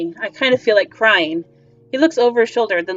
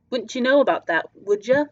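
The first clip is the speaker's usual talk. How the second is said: sly, falling retort to the stranger; knowing retort. Acted.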